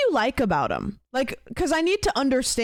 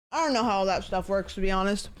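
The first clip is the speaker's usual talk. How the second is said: talking while chewing; crunching food mid-sentence; mouth full. Real, not acted. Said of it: "sorry for the crunching".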